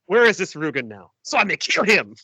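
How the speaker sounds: lightly voiced Mexican bandit accent; hint of El Guapo's Mexican accent; a touch of El Guapo. Fan imitates Inigo like El Guapo, Mexican accent. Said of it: "He sounds like Gua-, El Guapo".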